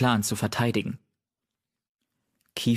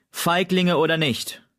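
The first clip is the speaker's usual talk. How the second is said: growled; 8 semitones higher, 3 dB louder than usual. A narrator's reading. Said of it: "knurrte Kiefernstern".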